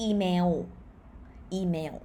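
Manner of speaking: "email" as ee-mew, final w; Thai pronunciation. Shown as a demonstration. Teacher showing the correct Thai word, w-ending pronunciation. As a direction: round the end of "email" into a w. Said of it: "with w".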